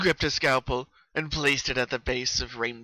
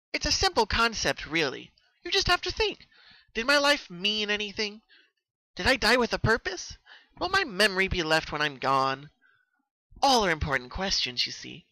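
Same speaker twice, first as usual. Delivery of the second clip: high, sing-song mad teacher; unhinged lecturing; 7 semitones higher than usual. Acted. Killer explaining death to her captive, high unhinged sing-song. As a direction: lecture her victim gleefully.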